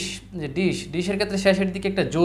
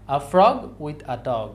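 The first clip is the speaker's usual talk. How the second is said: very slow, frog stressed; stressed syllables; 3 semitones lower, much slower than usual. Shown as a demonstration. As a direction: drag it out, leaning on frog. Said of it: "সেন্টেন্সের মতো করে বলবো". (ধীরে, frog-এ জোর)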